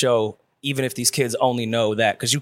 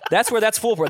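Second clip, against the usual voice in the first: laughing; 8 semitones higher than usual. Real, not acted. Laughing at a joke.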